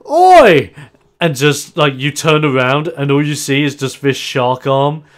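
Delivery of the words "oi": sharp high yell to get attention; loud shout. Acted. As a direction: bark it out to grab him. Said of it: "he's just like".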